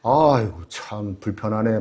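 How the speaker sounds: low, muttered complaint on the drive home; lightly voiced husband grumbling to himself. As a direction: grumble it under your breath like a sulking husband. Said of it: "투덜투덜대면서".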